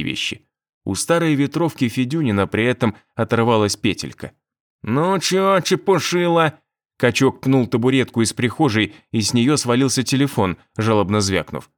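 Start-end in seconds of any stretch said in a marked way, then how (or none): 4.8-6.6 rough mocking thug taunt; russian street thug. A narrator's reading. Thug threatens victim.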